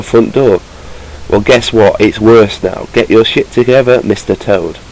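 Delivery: rough put-on West Country accent. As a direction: complain like a fed-up West Country landlord. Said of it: "I think I'm going a bit West Country".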